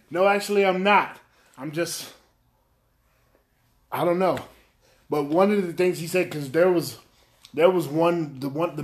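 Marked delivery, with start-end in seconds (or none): 0.1-4.4 laughing, flustered. Retold or imitated. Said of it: "and I was like".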